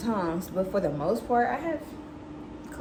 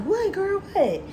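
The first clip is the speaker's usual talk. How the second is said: much higher, quick impatient prodding; eager pestering; 12 semitones higher, 4 dB louder, slower than usual. Retold or imitated. Daughter pressing mom for big news, high and eager. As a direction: push her to say it already.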